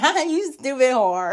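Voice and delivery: high, slow mocking laugh-talk; Natsu. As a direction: imitate gleeful jeering through a laugh. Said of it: "He starts laughing at her ass".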